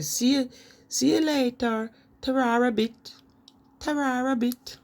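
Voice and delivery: high cheery Black Country farewell; Black Country goodbye. Shown as a demonstration. Saying goodbye as a Black Country local, high cheery Black Country accent. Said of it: "they say".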